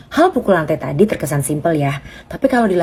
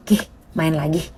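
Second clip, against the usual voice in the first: soft reassurance; 6 dB quieter than usual. Retold or imitated. Hugging child, encouraging.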